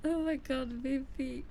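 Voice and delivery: choked-up, voice cracking; moved almost to tears, real; real teary gratitude; near tears. Real, not acted. Streamer moved by fan art gift.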